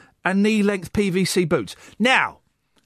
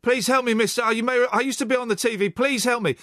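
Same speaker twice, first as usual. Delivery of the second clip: higher, begging voice; pleading beggar; 6 semitones higher than usual. Pretend. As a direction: beg for food, pitched up. Host plays starving beggar.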